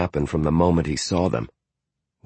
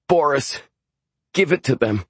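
high, frightened urging; stammering plea; 9 semitones higher than usual. A narrator's reading. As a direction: beg Boris to hand it over. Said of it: "I stammered".

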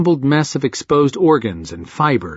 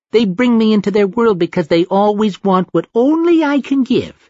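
put-on toddler voice; 5 semitones higher than usual. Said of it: "childish laugh".

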